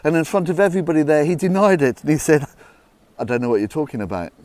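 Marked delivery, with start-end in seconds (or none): 3.2-4.3 hasty denial. Acted. Peter denies knowing Jesus.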